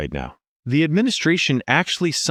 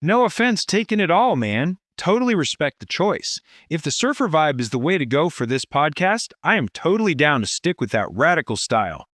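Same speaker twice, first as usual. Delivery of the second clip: agreeable surfer bro with swooping lilt; chilled Californian surfer voice; surfer dude. Acted. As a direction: go back to the laid-back surfer act. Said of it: "I like Surfer Dude better".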